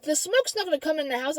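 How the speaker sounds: imitating a cocksure denial; retold stubborn contradiction; stubbornly convinced. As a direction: insist as if utterly sure. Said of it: "he was so convinced".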